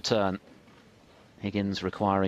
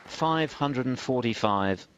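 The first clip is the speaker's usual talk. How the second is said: raised commentary; 6 semitones higher than usual. Real, not acted. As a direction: lift above the cheering crowd. Commentating over the century applause.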